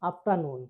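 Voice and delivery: আফটারনুন with no r before the n; silent R. Shown as a demonstration. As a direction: drop the r in আফটারনুন. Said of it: "তাহলে কি হবে". (র বাদ দিয়ে আফটারনুন)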